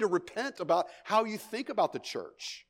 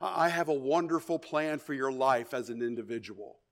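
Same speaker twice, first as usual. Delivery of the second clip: mock gentle tone; 4 semitones lower, 4 dB quieter than usual. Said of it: "hold Peter's face real gently and say".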